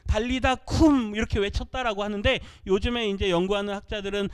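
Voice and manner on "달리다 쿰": slow, drawn-out call, a bit louder; loud cry. Retold or imitated. Preacher voicing Jesus as he was once thought to sound, loud slow cry. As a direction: call the girl up with force. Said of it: "크게 외치셨다".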